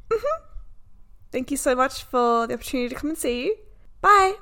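high, over-polite brave face; mock-polite. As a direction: chirp a polite thanks and goodbye. Polite reply after being rejected.

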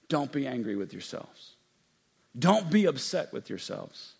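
hushed forgiving words; gentle reassurance. Acted. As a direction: ease it down to reassure. Forgiving brother, softened.

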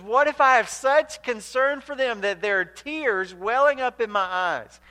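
slow, impassioned plea in God's voice. Acted. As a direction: stretch it out, starting high and loud, then easing. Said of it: "God just looking down on the people".

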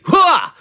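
sharp high grunt like a serve; tennis grunt. Pretend. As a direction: grunt as if hitting the ball. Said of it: "I'm in a tennis match right now".

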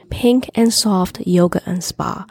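slow, lightly sultry read; sultry narrator. Acted. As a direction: purr it slowly, a touch sultry. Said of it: "Her sultry voice floated".

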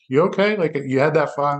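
high, lightly voiced worried wife; concerned wife. Wife asking her husband the next morning about the file, high and worried. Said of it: "the next day she's like".

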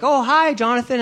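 high, loud cheery hello; eager high-pitched hi; bright greeting. Retold or imitated. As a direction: greet him like an old friend. Acquaintance greeting in grocery store.

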